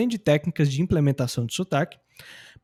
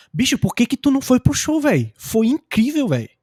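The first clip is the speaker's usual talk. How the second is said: high, emphatic buddy-to-buddy question; natural friend talk; 7 semitones higher, 3 dB louder than usual. Acted. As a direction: chide a friend, then gush about the show. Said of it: "Eu falaria assim".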